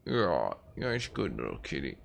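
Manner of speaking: soft cooing praise to a pet. Real, not acted. Streamer reassures his cat it is good, soft cooing baby talk. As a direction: murmur sweet nothings to the kitty.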